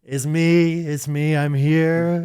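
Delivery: impersonating Leo. Retold or imitated. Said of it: "good impersonation of Leo doing a character".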